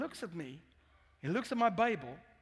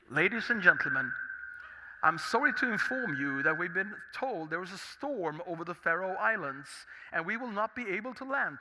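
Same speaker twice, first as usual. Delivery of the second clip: captain announcement; 4 semitones lower than usual. Retold or imitated. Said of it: "the captain came on the speaker".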